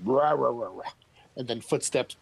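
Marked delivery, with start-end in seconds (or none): 0.1-0.9 loud beastly rah rah chant; loud bugbear grunts. Acted. GM voices a bugbear grunting upstairs, loud beastly chant. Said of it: "you hear some loud bugbear".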